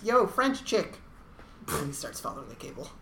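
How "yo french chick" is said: high, loud imitated call; mock holler; retold shout. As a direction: call out to someone far off, hammed up. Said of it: "and he shouts".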